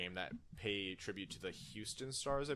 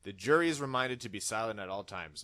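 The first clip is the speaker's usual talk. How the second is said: louder, commanding judge voice; booming magistrate; 6 dB louder than usual. Pretend. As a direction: boom it to the courtroom. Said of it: "the magistrate booms".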